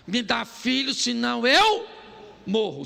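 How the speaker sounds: put-on loud, insistent cry for a child; half-acted wife demanding a child; demanding plea. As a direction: press him hard, mock desperate. Rachel pressing Jacob, retold.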